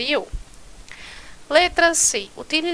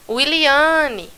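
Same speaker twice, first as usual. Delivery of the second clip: name called out, pitch raised and a bit louder; calling out a name; 4 semitones higher, 3 dB louder than usual. Shown as a demonstration. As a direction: call "Wiliane" as if calling someone across the room. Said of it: "Então, nós temos aí o exemplo". (chamando "Wiliane" em voz alta)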